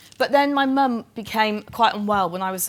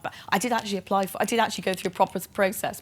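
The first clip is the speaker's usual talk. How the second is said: faster, softer indignant thought; fast inner thought; 3 dB quieter, faster than usual. Retold or imitated. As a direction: rush it under your breath, a private protest. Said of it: "And I thought".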